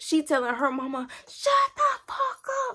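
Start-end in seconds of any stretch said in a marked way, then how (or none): 1.3-2.7 put-on imitated scream, higher. Retelling an argument phone call, imitating someone screaming. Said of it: "she's screaming at her mama".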